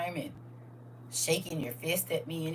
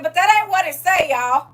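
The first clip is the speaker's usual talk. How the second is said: retold outburst; 9 semitones higher, 11 dB louder than usual. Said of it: "why I used to get thrown out of church".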